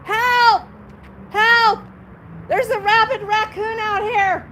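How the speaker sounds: hammed-up call for help; mock cry for help. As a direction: playfully yell help down the street. Joking call about rabid raccoon.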